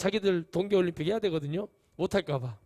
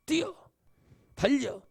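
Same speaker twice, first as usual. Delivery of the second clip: urgent command; 2 semitones higher, 6 dB louder than usual. Acted. God's urgent command quoted.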